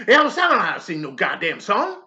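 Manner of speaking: loud, laughing bark; gruff shout. Acted. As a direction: holler it with a laugh. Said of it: "I said".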